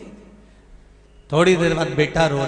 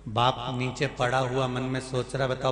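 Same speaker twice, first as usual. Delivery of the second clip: quiet grumbling to himself; muttered inner thought; 3 semitones lower, 6 dB quieter than usual. Retold or imitated. The lying father grumbles silently about his son, muttering. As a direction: think it aloud, quietly annoyed.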